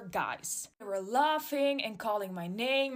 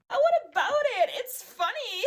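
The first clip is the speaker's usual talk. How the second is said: high, louder sneering bully voice; mocking bully; 9 semitones higher, 5 dB louder than usual. Bully girl taunting narrator who asked her to stop.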